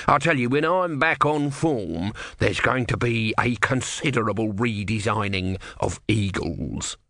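slow, grudging tortoise voice; testy little god; grumpy tortoise god. Acted. Tortoise threatens eagles.

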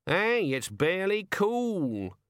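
high, slow gleeful bird voice; delighted raven. Acted. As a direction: raven savouring luck.

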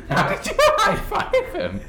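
high, laughing question. Real, not acted. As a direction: ask it while cracking up.

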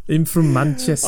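hammed-up amateur Mancunian accent; Manchester accent. Shown as a demonstration. Obliging co-hosts who begged for it, Manchester accent. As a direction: lay on a put-on Manchester accent. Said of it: "please do a Manchester accent".

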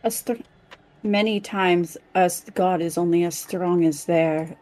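put-on a light trace of Calden's accent creeping in; catching a party member's accent without meaning to; slipping into Calden's accent. Player caught copying Calden's accent mid-sentence, lightly accented. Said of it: "I don't know why I'm absorbing your accent".

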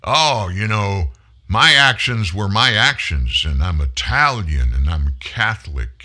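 Andrew Cuomo. Retold or imitated. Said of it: "what you just heard him say".

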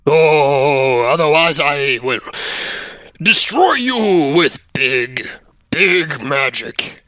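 slow mock-menacing ghost voice; Spooky Wisp. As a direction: threaten in a drawn-out spooky voice. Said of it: "it calls out to you".

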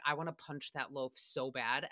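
low, soft, deadpan menace. Retold or imitated. Staring at fresh bread at the bakery, low quiet menace. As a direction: murmur it low like a quiet threat. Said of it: "I said it just like that, like, pretty in a l-, low tone".

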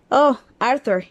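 put-on anxious old wizard crying out; desperate. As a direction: exclaim it in despair. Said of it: "exclamó desesperadamente".

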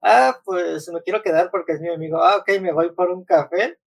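mock the dumb character's reasoning; mocking naive character. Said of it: "esa escena sí se me hizo muy estúpida".

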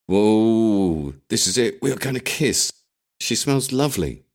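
high, breathless with excitement; thrilled he thinks a kiss is coming; excited inner voice. A narrator's reading. Young man in the car, sure she'll kiss him, excited.

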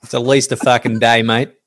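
lightly voiced blokey Aussie statistician; casual, hint of a put-on Aussie character; Australian statistics guy. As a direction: answer like a laconic local bloke. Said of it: "Where's the voice?".

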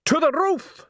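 high, excited shout; shouted rallying cry. A narrator's reading. Salzella sending the mob upward, shouting. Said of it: "shouted Salzella".

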